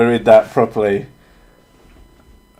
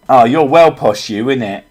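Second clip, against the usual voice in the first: lightly imitated Yorkshire pub-goer; a rough go at Yorkshire with some Essex in it; mock Yorkshire accent; 3 semitones higher, 5 dB louder than usual. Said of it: "some Yorkshire people came in".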